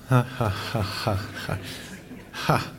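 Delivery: dry, spaced-out "ha ha ha"; sarcastic laugh. Real, not acted. Congregation answers the hope of spring soon, sarcastic laugh. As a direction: laugh sarcastically in separate syllables. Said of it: "hear sort of the sarcasm in that".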